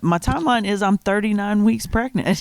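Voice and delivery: lively, incredulous retort; disbelieving, slightly exasperated comeback. Retold or imitated. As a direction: state it as if it were absurdly obvious. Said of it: "you say that kind of incredulously".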